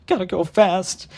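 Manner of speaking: high, slow, strained self-urging; hammed-up tearful muttering to himself; tearful whisper. A narrator's reading. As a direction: urge yourself on through tears and gritted teeth. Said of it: "he whispered to himself through tears".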